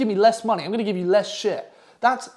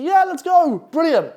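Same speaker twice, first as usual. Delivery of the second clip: high, loud, giddy yes; overjoyed acceptance; 10 semitones higher, 5 dB louder, slower than usual. Retold or imitated. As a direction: burst out like a thrilled beginner. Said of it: "dick happy".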